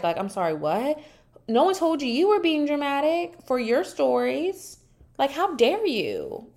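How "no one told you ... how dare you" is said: high-pitched indignant rebuke; affronted, pitch swooping up. Real, not acted. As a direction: scold an absent person in affronted disbelief. Mock outrage at Sai's dismissal.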